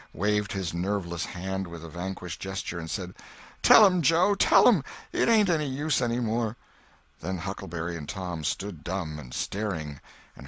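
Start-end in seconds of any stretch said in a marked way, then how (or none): 3.6-6.6 high, loud broken cry; despairing surrender. Acted. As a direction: give up in anguish. Potter gives up hopelessly.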